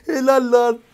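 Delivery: high, loud, laughing through the praise; delighted laughing cheer. Real, not acted. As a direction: cheer a teammate while cracking up. Celebrating the win.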